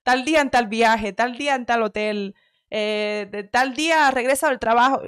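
half-hearted mock bossy planner; bossy girlfriend. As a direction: lay down the schedule item by item. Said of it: "me da pereza hasta actuar de eso".

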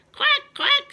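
high, loud quacking; duck quack. Acted. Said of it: "said the duck".

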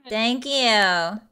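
put-on drawling Valley Girl agreement. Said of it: "Valley Girl accent".

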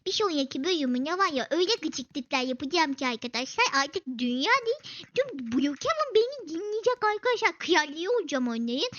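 scheming villain. Pretend. Villain plotting lower voice.

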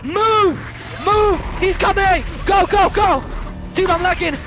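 hyped gamer bro. Real, not acted. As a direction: yell at your buddy to run. Ghost chasing, players flee.

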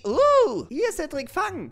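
high, loud excited call; excited shout. Acted. Friend tossing the ball to Cedric, excited shout. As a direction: throw it with a whoop.

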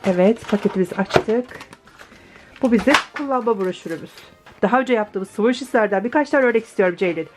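hoarse, rough post-op voice; groggy from anesthesia. Real, not acted. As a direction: talk through a sore, drowsy throat. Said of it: "sesimin, e, iğrençliğinden dolayı". (narkoz sonrası kısık ses)

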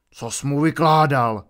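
loud, rumbling demand; angry growl. A narrator's reading. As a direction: demand an answer like a suspicious elder. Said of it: "zahučel Bane".

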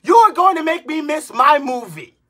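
yelling at the person holding up the ticket line; angry shout. Real, not acted. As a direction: bark the order at them. Yelling at indecisive moviegoers.

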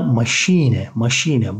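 "maşine" slowly, ma-SHEE-ne; German-style "maşine" with sh; SH sound. Shown as a demonstration. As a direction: draw out the long ee in "maşine". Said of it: "Ş harfini koyuyoruz".

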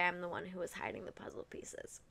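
hushed, breathy confession of the prank; sly whisper. Retold or imitated. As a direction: whisper it like a guilty secret. Friend reveals prank at dinner.

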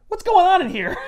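high, startled question; alarmed demand. Retold or imitated. Spider-Man picking up the phone, alarmed. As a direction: demand it sharply. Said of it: "he's like".

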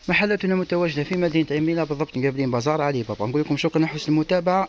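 promo sign-off. Acted. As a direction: wrap up like a store announcer. Store address and sign-off.

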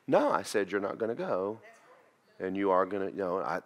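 put-on calm, kind firmness to a child; real kindly. Shown as a demonstration. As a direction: say no gently but firmly. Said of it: "look at them real kindly and go".

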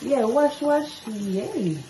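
high, loud encouraging praise. Real, not acted. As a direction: cheer the little one along. Praising toddler.

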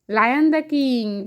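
lion, the king drawn out very slowly; slow teaching repeat. Shown as a demonstration. Mother repeating the phrase for her toddler, very slow. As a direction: stretch each word so the child can copy. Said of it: "slow repeat for child".

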